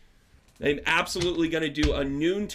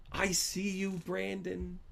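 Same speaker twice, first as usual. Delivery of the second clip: whisper; 4 semitones higher, 7 dB quieter, much slower than usual. Retold or imitated. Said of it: "Jamie says to me".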